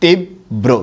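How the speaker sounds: তীব্র said as tib-bro with a short i, a doubled b and a final o; তীব্র with a short i, a doubled b and an o ending; pronounce tibbro. Shown as a demonstration. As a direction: teach তীব্র as tibbro, the b held and an o at the end. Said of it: "উচ্চারণের সময় রস্য ইকার হবে".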